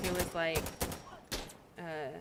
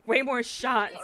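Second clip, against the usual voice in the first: louder, slowed-down laughing correction; amused, laughing through the words; 3 semitones higher, 6 dB louder, slower than usual. Real, not acted. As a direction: crack up while fixing your own slip. Cracks up at own slip.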